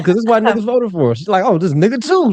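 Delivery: very high comic squeak of a voice; high-pitched mock-simple explaining; put-on high voice. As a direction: make the point in falsetto. Comic bit, voices imagined voters.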